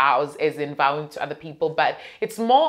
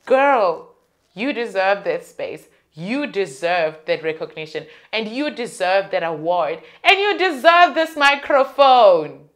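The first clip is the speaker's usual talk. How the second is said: self pep talk; 4 dB louder than usual. Real, not acted.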